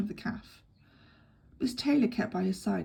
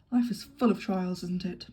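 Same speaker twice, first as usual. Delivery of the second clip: cheerful. Acted. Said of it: "said Anthony cheerfully".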